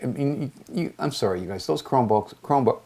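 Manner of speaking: hiccuping between words; hiccups. Real, not acted. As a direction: talk through the hiccups. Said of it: "I'm hiccuping 'cause I just ate some shrimp".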